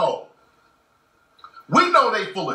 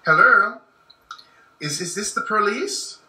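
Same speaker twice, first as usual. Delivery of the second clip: white voice. Retold or imitated. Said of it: "put your white voice on".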